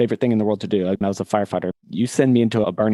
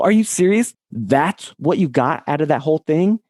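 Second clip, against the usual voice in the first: retold disbelief, pitched up and louder; incredulous; 7 semitones higher, 4 dB louder than usual. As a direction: replay the shock of hearing his dad's reply. Son retold arguing with his dad.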